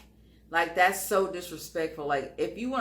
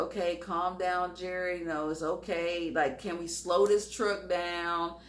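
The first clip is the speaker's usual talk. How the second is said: calm soothing. Retold or imitated. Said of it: "Okay, just be calm".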